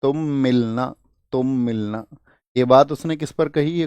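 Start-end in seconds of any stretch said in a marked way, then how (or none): 0.0-2.1 a hint of speaking on a phone call; mock phone call. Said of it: "call पर कही".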